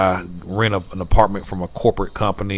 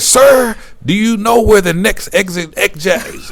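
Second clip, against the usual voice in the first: high, louder mock Canadian clerk; Canadian accent; 12 semitones higher, 5 dB louder than usual. Clerk asking the vlogger about the exit, Canadian accent. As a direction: ask politely with a Canadian lilt. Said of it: "I can't make the accent".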